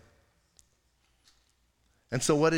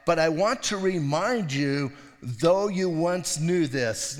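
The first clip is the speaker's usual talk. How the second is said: slow reading; slower than usual. Shown as a demonstration. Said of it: "he says in verse five".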